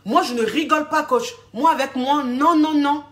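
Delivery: a client protesting her toughness; indignant client. Retold or imitated. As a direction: client insisting she's not joking. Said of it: "Elle dit".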